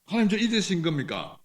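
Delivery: forsaken cry. Acted. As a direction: call out to God as if abandoned. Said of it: "이렇게 말하고 있는데요".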